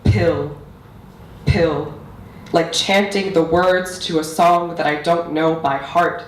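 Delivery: measured, deliberate poetry recital; spoken-word poetry. Acted. Poet performing own piece on language for an audience, spoken-word recital. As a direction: recite it line by line with weighted pauses.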